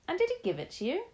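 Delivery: curious grandson pressing on; young boy voice. Acted. Boy character asking.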